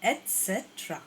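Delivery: Etcetera said et-se-tra, three syllables; model pronunciation. Shown as a demonstration. Teacher repeating etcetera for students. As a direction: give Etcetera cleanly. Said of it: "किस तरीके से pronounce करेंगे".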